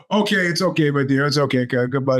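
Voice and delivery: put-on calm down a crying kid; soothing. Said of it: "He goes over and go".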